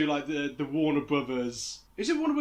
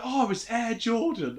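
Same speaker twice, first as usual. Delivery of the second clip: higher-pitched imitation of an excited onlooker; mock starstruck; 5 semitones higher than usual. Cartoon old woman recognising Michael Jordan, mock starstruck. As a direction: play a cartoon fan spotting a star.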